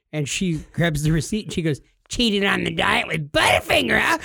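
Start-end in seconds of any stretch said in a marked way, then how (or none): 2.1-4.2 mock accusing wife. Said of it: "My wife does not talk like that".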